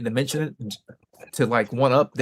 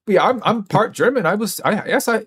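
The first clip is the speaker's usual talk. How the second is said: mock heritage bragger; 8 semitones higher than usual. Mocking bragging white person.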